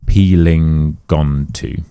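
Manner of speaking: "peeling onto" slow, ng flowing into onto; linked peeling onto. Shown as a demonstration. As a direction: slowly glide "peeling onto" together.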